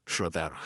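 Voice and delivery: "Rhodderch" with a soft th-like middle and rough ending; Brythonic pronunciation. Shown as a demonstration. Speaker giving the name's etymology, "Rhodderch" pronounced the Brythonic way. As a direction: say "Rhodderch" as an old Brythonic name. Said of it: "it's from the Brythonic".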